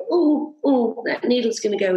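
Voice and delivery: mock nervous dread. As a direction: ham up being scared of the injection. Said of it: "I could go".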